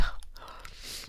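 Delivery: breathy little laugh; embarrassed chuckle; soft laugh. Real, not acted. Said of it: "Sorry, I have a cough drop".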